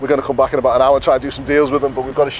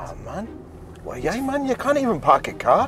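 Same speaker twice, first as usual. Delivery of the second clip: high mock Geordie teasing; 9 semitones higher, 4 dB quieter than usual. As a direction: rib the driver in a put-on Geordie accent. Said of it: "Can I do a Geordie accent".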